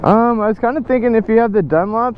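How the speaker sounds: muffled through a helmet visor; inside a helmet. Real, not acted. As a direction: talk from inside a closed helmet. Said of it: "I, I can barely hear you".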